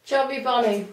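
garbled through packed cheeks; cheeks stuffed full. Real, not acted. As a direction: barely move your mouth. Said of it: "I can't move my mouth".

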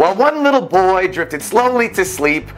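lilting rhymed picture-book reading; measured storyteller cadence; storybook narration. A narrator's reading. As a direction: read it like story time, dropping at rhyme ends. Reads rhyming picture book aloud.

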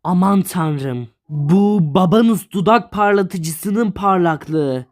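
mock romantic line. Shown as a demonstration. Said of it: "diyorsun ki".

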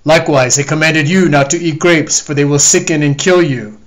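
loud, booming divine judgment; wrathful God. Acted. The Lord condemning the lying dog, booming anger. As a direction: thunder judgment down on the liar.

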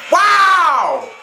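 high, loud, long "wow"; stunned wow. Real, not acted. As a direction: cry out in amazement. Reacting to the impact.

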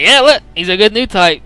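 hyped cheer. Retold or imitated. Excited cheer for Banaji.

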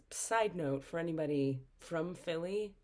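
hushed aside whisper. Real, not acted. Aside to Philly viewers.

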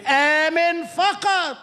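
slow emphasis. Shown as a demonstration. Preaching climax.

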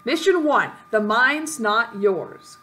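deliberate title-card reading; reading aloud. Acted. Player reading out the mission title, deliberate announcement. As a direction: read the mission title out, drawn out at the end. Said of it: "I'm gonna read this".

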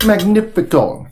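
mock Italian, high and slow; hammy Italian food praise; Italian accent. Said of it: "I'm trying to speak Italian".

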